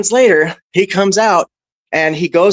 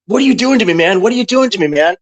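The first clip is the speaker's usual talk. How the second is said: higher mock-frightened pleading; panicked plea; 5 semitones higher than usual. Bouncer retelling the scared attacker's frightened pleading. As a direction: imitate a terrified man begging. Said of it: "I hear this guy going".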